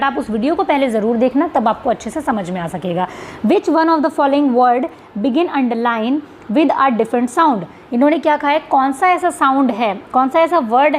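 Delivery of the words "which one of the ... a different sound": reading the question aloud slowly; spelling out an exam question to students. Shown as a demonstration. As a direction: read each word of the question out deliberately.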